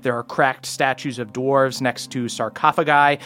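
measured game master narration; slightly low, even storytelling; scene setting. Acted. Game master describing the crypts to the players, measured narration.

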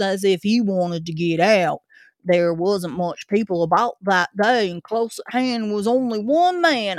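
put-on gruff old Cockney zookeeper; Cockney accent. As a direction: grumble it like a London keeper. Zookeeper tells his story.

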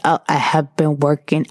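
a lightly faked drunk excuse; imitating drunk. Drunk ex lying about working, lightly mock drunk. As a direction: do a mild mock drunk, trying to sound sober. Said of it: "I hope that sounded drunk to you".

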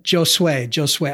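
"Josue" begun with an English-like J or sh; practising the corrected name. Shown as a demonstration. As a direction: repeat "Josue" as Jo-sway. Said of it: "I apologize for that".

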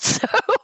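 a quick high laugh; high burst of laughter. Real, not acted. Amused that the coffee swirl became a pit bull, high laugh.

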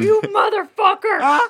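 slow, anguished mock cry; mock outrage. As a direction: wail it in fake betrayal. Players mock-angry at the DM.

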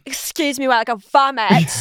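overdone mock-dramatic line reading; mocking, heightened quote. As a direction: guest mocks the movie's script, heightened and silly. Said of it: "so heightened and stupid".

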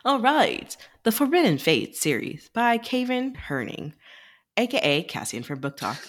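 smooth announcer-style reading; flight attendant voice. Acted. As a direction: read it like cabin announcements. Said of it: "you had a very flight attendant voice".

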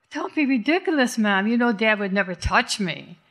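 put-on a touch of teenage scorn; scornful. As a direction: brush the idea off with contempt. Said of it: "Kimmy says scornfully".

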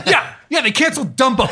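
high, insistent mock old lady with a laugh; older woman's voice. Older writer insisting about Dumbo, high and laughing.

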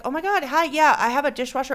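high, eager phone greeting; mock thrilled caller; excited. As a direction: gush like you're thrilled to reach them.

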